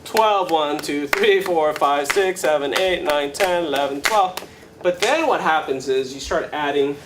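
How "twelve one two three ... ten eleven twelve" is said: steady rhythmic count. Shown as a demonstration. Teacher shows where the cycle starts, steady count. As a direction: count evenly in a twelve-beat cycle. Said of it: "we start on the twelfth".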